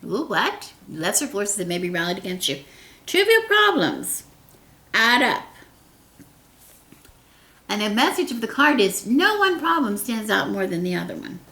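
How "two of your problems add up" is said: excited. Real, not acted. Excited reading.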